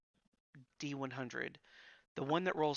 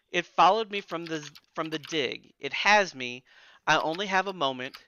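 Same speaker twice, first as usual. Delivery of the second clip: louder frantic pleading read; desperate letter writer; 2 semitones higher, 5 dB louder than usual. Acted. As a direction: read it like a haunted plea.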